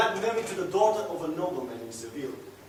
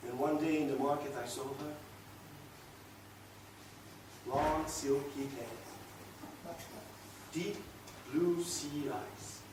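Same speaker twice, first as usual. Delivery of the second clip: dreamy infatuation; 6 semitones lower, 13 dB quieter than usual. Acted. Man recalling the woman seen in the market, entranced. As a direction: savour each feature in a hushed voice, with long pauses. Dreamily describes a new beloved.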